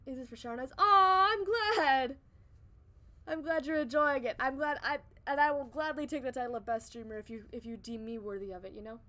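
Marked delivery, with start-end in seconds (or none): 0.8-6.7 touched and glad. Real, not acted. Touched by chat's praise.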